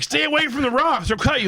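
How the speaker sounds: high-pitched imitated warning; mock warning call. Retelling warning to drifting swimmer, high mock warning call.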